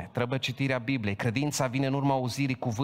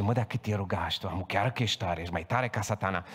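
sly serpent voice; 6 semitones lower than usual. Acted. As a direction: whisper it like a cunning snake. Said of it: "Și zice". (glas viclean de șarpe, încet și jos)

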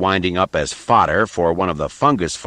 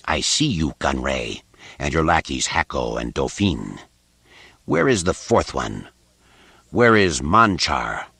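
dry rasping Sith lord; 5 semitones lower than usual. Acted. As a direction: demand it coldly, dragging the last question. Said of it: "his voice a dry rasp".

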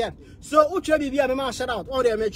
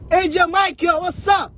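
higher-pitched excited shout-out; calling out; 5 semitones higher than usual. Real, not acted. Host greeting a viewer joining the live stream, calling out. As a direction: call out a hearty greeting.

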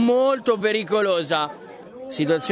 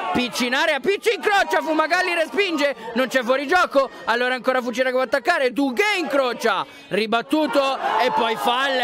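rising excitement; 4 semitones higher than usual. Real, not acted. Attacking chance in the box.

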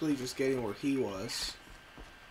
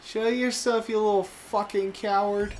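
angry call-out; 6 semitones higher, 5 dB louder than usual. Real, not acted. Calling out hidden enemy.

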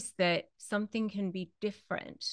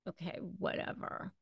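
dismissive; 11 dB quieter than usual. Retold or imitated. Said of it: "It might just be like".

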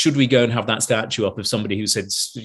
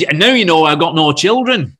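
louder, higher retold punchline; joking; 4 semitones higher, 6 dB louder than usual. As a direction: imitate him telling it like a joke. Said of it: "telling it like a joke".

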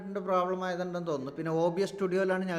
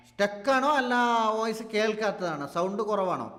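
alarmed questions; 5 semitones higher, 9 dB louder than usual. Real, not acted. Worried the stream is stuck.

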